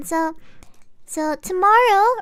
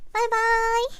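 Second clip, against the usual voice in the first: cute voice; 4 semitones higher than usual. Real, not acted. Cute sign-off.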